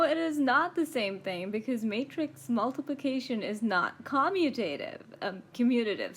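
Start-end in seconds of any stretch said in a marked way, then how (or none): 4.0-5.0 "commutative" with a full stressed "tay": COM-mu-tay-tive; own pronunciation. Real, not acted. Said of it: "You want me to say commutative". 5.5-6.1 "commutative" stressed on MU, reduced ending; self-correct to "commutative" as com-MYU-tuh-tive; corrected pronunciation. Shown as a demonstration. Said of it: "Sorry, sorry".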